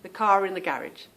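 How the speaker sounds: "car in" joined by R, as "car rin"; at-home linking R. Shown as a demonstration. Saying it like she's at home, "car in" linked by R. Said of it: "say it like I'm at home".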